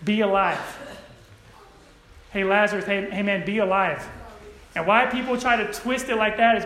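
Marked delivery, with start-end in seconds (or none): 0.1-0.8 easygoing, conversational call at everyday volume; comfortable, casual. Acted. Preacher voicing people's softened version of Jesus, casual and mild. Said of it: "make it a little more comfortable". 2.3-4.1 laid-back, everyday-volume nudge; comfortable, casual. Acted. Preacher mocking the twisted version of Jesus' words, casual and mild. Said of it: "make it a little more comfortable".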